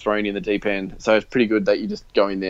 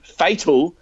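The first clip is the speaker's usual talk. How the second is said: higher-pitched, disbelieving question; incredulous echo; 7 semitones higher, 4 dB louder than usual. Retold or imitated. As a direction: throw the name back in mock disbelief. Echoes friend's suggestion in disbelief.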